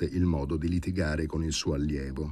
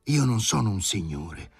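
barked retort; 4 semitones higher than usual. Acted. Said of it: "abbaiò Sharikov".

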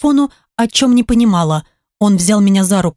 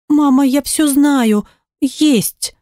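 put-on child voice; 5 semitones higher, much slower than usual. Daughter voiced higher, upset.

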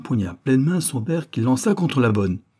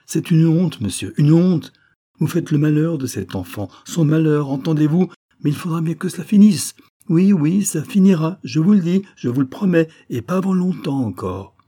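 loud, high outburst of indignation; teriakan marah; 7 semitones higher, 6 dB louder than usual. A narrator's reading. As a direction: scold hotly, voice raised and pitched up. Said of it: "Céleste alors s'emportait, criait".

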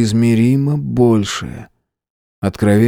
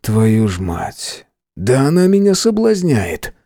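startled curse; 2 semitones higher, slower than usual. Acted. Narrator swears, startled by temptation.

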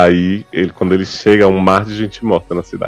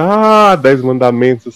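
mock yelling; 5 semitones higher, slower than usual. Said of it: "assim, gritar, chorar".

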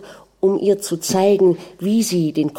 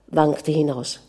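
ordinary delivery

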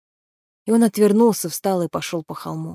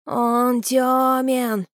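hissed; 5 semitones higher, much slower than usual. Acted. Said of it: "прошипел Граги".

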